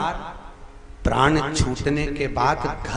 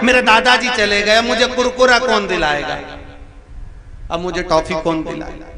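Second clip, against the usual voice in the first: put-on higher, louder childish whine; child crying; 5 semitones higher, 4 dB louder than usual. Grandson whines to the saint about his grandpa, mock crying. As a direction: whimper like a small grandson. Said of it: "वो रो रहा था".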